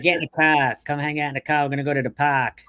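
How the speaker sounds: light demo of a Boston accent; casual Boston-accent impression. Shown as a demonstration. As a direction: imitate a Bostonian, dropping the R's. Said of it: "in Boston, they're like".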